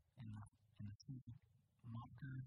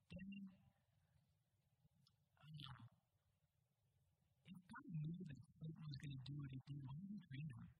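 rattled off fast with a raised "Daddy"; quickly. Retold or imitated. Pastor retelling his seven-year-old son's rapid question, fast. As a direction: rush the question out without a stutter. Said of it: "he just said as quickly as could be".

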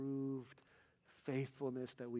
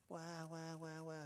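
soft, higher mock wail; imitated child crying; 4 semitones higher, 10 dB quieter, slower than usual. Preschooler taken in by teachers, mock crying. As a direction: mimic a little child's wah-wah crying. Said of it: "He's crying, crying, crying".

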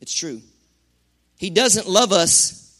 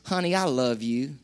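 soft cooing imitation of a loving wife; sweet talk; 7 semitones lower, 10 dB quieter than usual. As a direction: coo it softly and sweetly. Mock wife's sweet talk.

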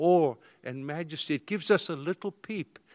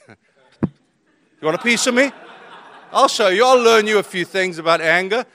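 put-on belligerent drunk; 3 semitones higher, 10 dB louder than usual. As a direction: challenge him like a bar brawler. Retorts to pastor, laughing.

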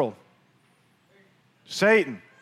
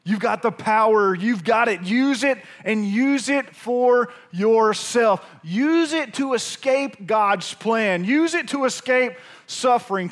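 insistent tempter; 3 semitones higher than usual. Acted. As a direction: push the temptation hard, voice up. Satan urging Jesus, second take.

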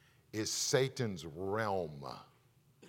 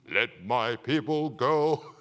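Moses voice; 6 dB louder, slower than usual. Retold or imitated. Preacher voicing Moses.

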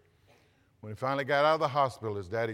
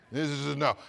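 shaking no cue; 4 semitones higher, 3 dB louder than usual. Shown as a demonstration. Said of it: "I'll help you again".

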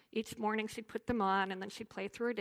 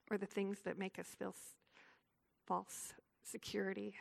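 prayer. Acted. Closing prayer for the women.

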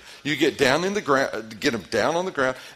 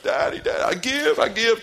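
put-on high, breathless kid giving up, pitched way up; kid squealing surrender; 11 semitones higher, 6 dB louder than usual. Pastor imitating his kid crying uncle mid-wrestle, high squeal. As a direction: squeal it out like a pinned little kid. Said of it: "they're screaming like".

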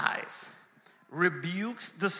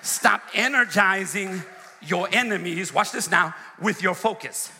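forceful repeat. Shown as a demonstration. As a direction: say it to one person's face, hard. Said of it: "let me look somebody in the face".

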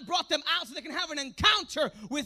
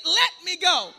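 loud, emphatic rallying shout; like you mean it; 3 semitones higher, 9 dB louder, slower than usual. Shown as a demonstration. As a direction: shout it with full conviction. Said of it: "say it like you mean it".

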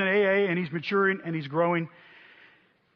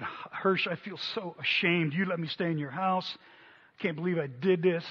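softer, ashamed confession; 6 dB quieter than usual. Retold or imitated. Evan confessing shame to his mentor, soft and ashamed. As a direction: quietly retell his shame. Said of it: "Evan said".

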